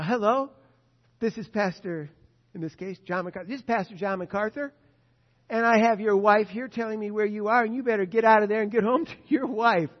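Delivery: loud, firm warning down the phone; stern loud phone call. Retold or imitated. Pastor warns cheating husband by phone, loud and stern. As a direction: order him home, loud and firm.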